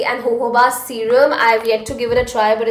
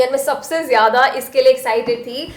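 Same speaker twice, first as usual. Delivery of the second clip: Hindi-English code-switching; switching languages midsentence; much faster than usual. Real, not acted. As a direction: swap between English and Hindi mid-line.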